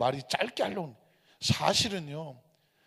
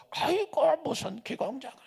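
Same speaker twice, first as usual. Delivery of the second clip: higher, softer scoffing quote; mock disbelief; 6 semitones higher, 6 dB quieter than usual. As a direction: imitate a scoffing congregant, pitched up. Congregation's mocking reaction, acted.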